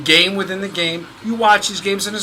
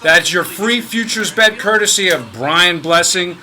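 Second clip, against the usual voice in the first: louder, emphatic radio plug; promo announcer read; 4 dB louder than usual. Acted. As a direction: punch out the sponsor plug like an announcer. Reads the show's promotional plug.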